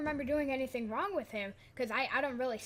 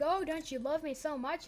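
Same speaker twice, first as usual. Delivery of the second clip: higher-pitched playful taunt; mock-sweet teasing; 5 semitones higher than usual. Girl teasing him before laughing friends, mock-sweet. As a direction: lightly mimic a teasing girl. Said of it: "making fun of me".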